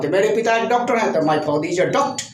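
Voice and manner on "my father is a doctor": "my father is a doctor" joined up, r's dropped; silent r, linked. Shown as a demonstration. Teacher gives another example, father and doctor linked without r. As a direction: end doctor on an open vowel, no r. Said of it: "क्योंकि आर अंत में है".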